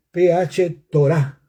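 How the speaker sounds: Torah said with the stress on its final A, slowly; slow Greek term, stress on the final A of Torah; Greek word pronounced. Shown as a demonstration. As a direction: spell P H then say Torah stressed on the last A. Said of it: "con acento en la A".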